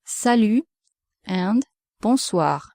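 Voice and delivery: "Salut" and "bonsoir" modelled in French; French greetings. Shown as a demonstration. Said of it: "other words to say hello in French".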